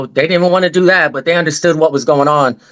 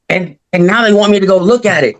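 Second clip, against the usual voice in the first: worked-up retelling of an upset brother, rushed and higher; retold tripping; 5 semitones higher, faster than usual. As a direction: rush it out in mild, higher-pitched protest. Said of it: "So he was tripping".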